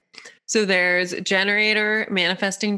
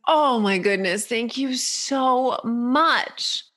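stretched-out, higher gushing thanks; gushing gratitude; 5 semitones higher, much slower than usual. Acted. Squirrel thanking the one who helped, gushing. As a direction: draw out the thanks very slowly.

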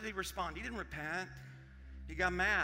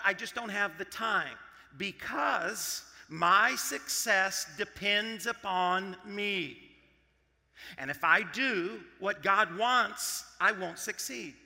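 slow, louder, weighted phrases; emphatic mock self-reliance; 7 dB louder, slower than usual. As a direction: voice the self-reliant believer, hammering each phrase. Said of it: "We say things like this".

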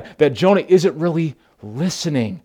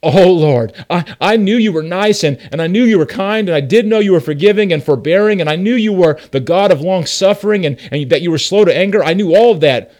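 exasperated Jonah; 4 semitones higher, 5 dB louder than usual. Retold or imitated. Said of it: "Jonah was saying".

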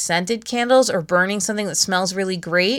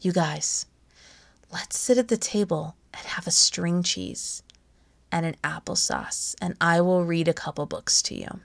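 pretend whisper; 2 semitones lower, 7 dB quieter than usual. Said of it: "I pretend I'm whispering this in a lovely, lovely tone".

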